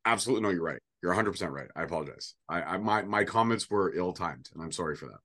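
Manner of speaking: dry, mock-sincere apology; sarcastic apology. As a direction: apologize without meaning it. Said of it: "I'm being sarcastic".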